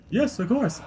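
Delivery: high-pitched, hammy dad on the phone; put-on dad voice. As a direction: greet in a silly high dad voice. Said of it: "I better call my daughter".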